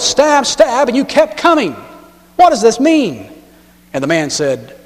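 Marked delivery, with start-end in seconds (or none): 0.0-3.3 exasperated. Retold or imitated. Frustrated soldier complaining.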